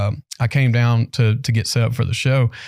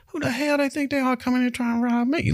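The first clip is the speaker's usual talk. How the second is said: indignant; 12 semitones higher, 5 dB quieter than usual. Retold or imitated. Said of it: "talking like that".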